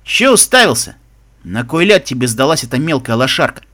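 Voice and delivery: lightly voiced rough guard; hoarse guard. Guard sneering to his mate about the prisoner, lightly hoarse. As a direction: toss it out as a scornful jailer, slightly hoarse. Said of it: "хрипло бросил один из охранников".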